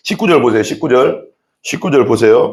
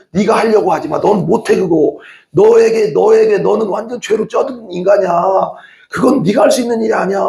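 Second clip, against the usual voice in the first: a raised, urgent divine voice, clearly higher; the Spirit scolding the preacher, higher and insistent; voice of God; 6 semitones higher than usual. Retold or imitated. God's voice speaking to him.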